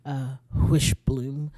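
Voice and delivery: Wishbloom stretched slowly with a rising end; drawn-out Wishbloom. Shown as a demonstration. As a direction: linger on Wishbloom, slow. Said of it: "emphasize that H".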